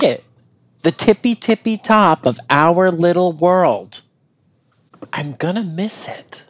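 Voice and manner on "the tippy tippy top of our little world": "tippy" rising bright, "top" falling; excited. Acted. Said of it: "tippy top repeated, louder".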